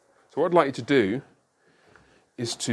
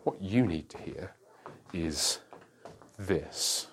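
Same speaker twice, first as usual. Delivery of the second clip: pastor's quote; 3 semitones lower, 7 dB quieter, slower than usual. Retold or imitated. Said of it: "is he says".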